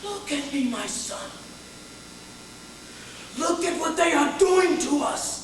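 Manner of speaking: anguished appeal, growing in force; old woman's appeal. Acted. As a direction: begin hushed, then press each word out. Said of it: "She looked at me and said".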